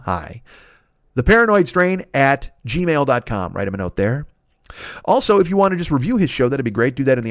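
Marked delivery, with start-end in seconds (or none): 1.2-3.5 slower, careful repeat of the address. Shown as a demonstration. Host correcting the sponsor email for listeners, slowly.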